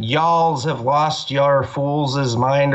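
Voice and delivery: stretched-out mocking of a put-on Southern accent; drawn out like a bad American accent; slow mock accent. Mocking Conor's typed accent, slow and stretched. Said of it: "typing in an accent".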